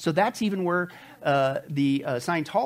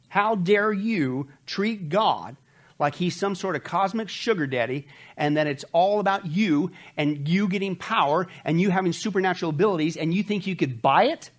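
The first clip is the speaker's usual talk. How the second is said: indignant rebuke; 3 semitones higher than usual. Acted. Preacher voicing Peter's rebuke.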